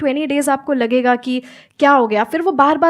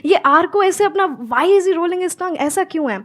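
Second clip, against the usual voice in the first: put-on curious child; 4 semitones higher than usual. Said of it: "वो एक curiosity आई कि".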